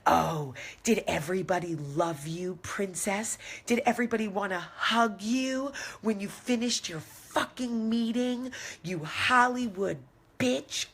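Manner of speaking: screaming mock driver. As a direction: scream it at her like a furious cabbie. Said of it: "And he starts screaming".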